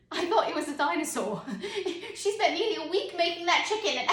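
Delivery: scolding through giggles; stifled laughter. Acted. Parent correcting themselves about the pottery, stifling laughter. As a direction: try to stay serious while laughing. Parent failing to keep straight face.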